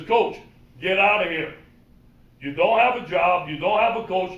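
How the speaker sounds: orang tua marah; angry dad. Retold or imitated. Angry father kicking coach out.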